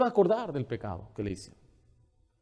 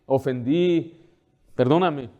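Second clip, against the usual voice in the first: hollow apology; slower than usual. Retold or imitated. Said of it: "En vez de reconocer".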